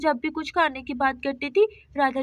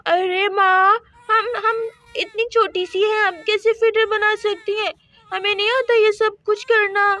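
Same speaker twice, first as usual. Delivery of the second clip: tearful, higher pleading whine; whiny crying plea; 4 semitones higher, 3 dB louder than usual. Acted. Daughter tearfully begging mother against chores, whiny crying. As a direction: whimper it like a child about to cry.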